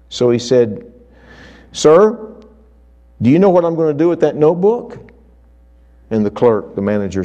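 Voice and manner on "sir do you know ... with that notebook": higher and a bit louder, rushed eager question; bursting to share a secret, fast; keen, quick and lifted; eager excitement. Retold or imitated.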